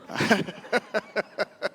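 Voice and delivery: a quick high chuckle; amused high laugh. Real, not acted. Laughing at church prank story.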